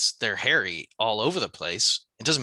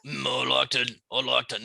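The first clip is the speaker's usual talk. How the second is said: pirate. Acted. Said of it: "that's a pirate".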